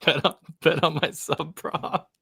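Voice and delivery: lightly put-on Australian accent; mock Aussie accent. Co-host echoing the bet on sub prop bit, light Aussie accent. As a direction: echo the Aussie impression with a casual attempt. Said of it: "you have a good Aussie accent".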